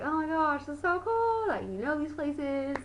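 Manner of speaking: high-pitched excited squeal at normal volume; mock gushing. Gushing to boyfriend over his home area, high mock excitement. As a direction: gush in an exaggerated high voice.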